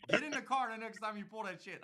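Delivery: high, loud acted-out comeback; heated retold dare; angry retort. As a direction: tell him off, replaying the argument.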